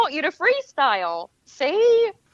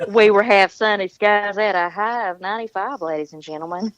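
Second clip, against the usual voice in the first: Southern accent; 4 semitones lower than usual. Shown as a demonstration. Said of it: "get you to say".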